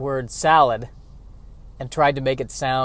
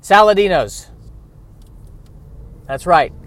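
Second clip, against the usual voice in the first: loud, punched mobster boast; fake mafia boss; 5 semitones higher, 7 dB louder than usual. Impostor boasting to mafia bosses, loud mock-boss pride. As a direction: declare the family name loudly like a boss. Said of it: "trying to pretend to be a mafia boss".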